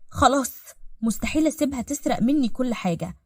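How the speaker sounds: heated, vengeful muttered-out plotting; angry. Acted. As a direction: vent bitter anger at a rival. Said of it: "بغضب".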